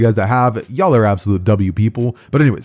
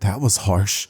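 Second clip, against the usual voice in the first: softer muttered aside; mumbled under breath; 3 semitones lower, 5 dB quieter, slower than usual. Acted. Goon muttering after Bakugo's outburst, under his breath. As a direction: mumble it low-key, under your breath. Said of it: "mumble under his breath".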